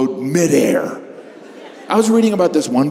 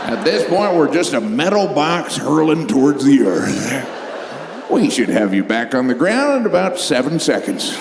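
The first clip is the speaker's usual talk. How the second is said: pilot on intercom. Retold or imitated. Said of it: "Maybe the pilot came over the intercom".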